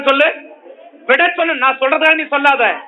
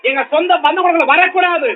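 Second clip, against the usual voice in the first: raised, ringing rebuke with shouted peaks; preaching at full force; 2 semitones higher than usual. Acted. Preacher commanding the problem to leave the house, full force. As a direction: command it out, building with each line.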